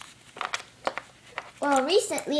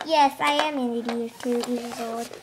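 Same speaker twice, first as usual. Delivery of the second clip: a lightly voiced old woman, lower; mock old lady; 8 semitones lower, 3 dB quieter than usual. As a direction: admit it like a doddering old lady. Teacher plays old lady.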